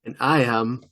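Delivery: lightly put-on dramatic hero intro; a touch of mock-menacing self-introduction; Darkwing Duck. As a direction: announce yourself with long, suspenseful pauses. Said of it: "You said it like Darkwing Duck".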